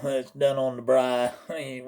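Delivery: slow, drawn-out "braai"; mispronounced braai. Shown as a demonstration. Showing what we don't say, drawn-out "braai". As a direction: stretch "braai" slowly, hammed up. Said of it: "We don't go".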